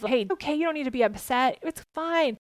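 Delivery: quick, brushing the upset aside, rising at the end; dismissive brush-off. Shown as a demonstration. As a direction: brush off the child's feelings lightly. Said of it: "Instead of".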